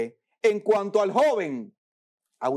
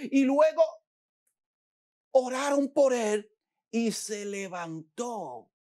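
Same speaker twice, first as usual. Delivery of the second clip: excited retelling; 3 semitones higher than usual. Retold or imitated. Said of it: "yo me imagino yo contándole".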